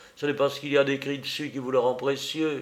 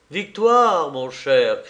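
joyful exclamation; 2 semitones higher, 7 dB louder, much slower than usual. A narrator's reading. Tristan coming home joyful to his brother, triumphant cry. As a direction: burst out with the good news. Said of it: "s'écria-t-il".

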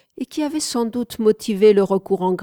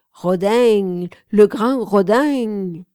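put-on Toulouse accent; 2 semitones higher, 7 dB louder, much slower than usual. A narrator's reading. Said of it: "avec un fort accent toulousain".

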